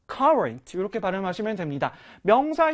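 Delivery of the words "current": "current" with the first syllable stressed. Shown as a demonstration. Teacher showing learners how to pronounce it, "current" stressed up front. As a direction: hit the start of "current", let the end fall away. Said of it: "앞에 강세가 있어서요".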